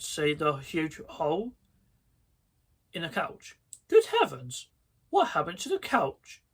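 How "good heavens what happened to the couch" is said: rising shocked cry; shrieking. Acted. Mum discovering the burned couch, shocked shriek. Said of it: "Mum shrieked".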